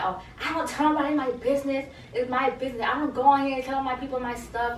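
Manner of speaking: a hint of a heated castmate; imitating going crazy. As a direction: retell her losing it, half-acted. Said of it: "she was just going crazy".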